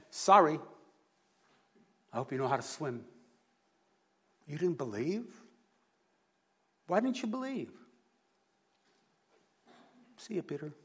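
lightly voiced, teasing Jesus, deliberately wrong; mock Jesus. Preacher joking what Jesus did not say to sinking Peter, lightly teasing. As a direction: play a flippant Jesus for a laugh.

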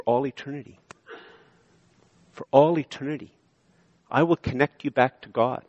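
reassuring preacher's hush; tender promise. Acted. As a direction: lay it down gently like a gift. Soft, slow promise passage.

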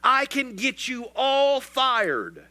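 mock scream. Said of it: "he screamed".

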